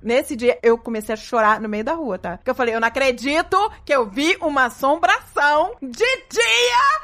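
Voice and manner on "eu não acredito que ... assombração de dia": slow, drawn-out incredulity, rising at the end; retold disbelief. Woman recalling seeing a ghost in daylight, incredulous. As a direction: stretch it out in mock-horrified disbelief. Retells her own disbelief, slowly.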